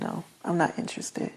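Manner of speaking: whispered quiet no; hushed refusal. Retold or imitated. Woman refusing to talk to the shooter's sister, whispered. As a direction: say it under your breath, final.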